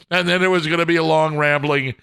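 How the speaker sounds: ordinary delivery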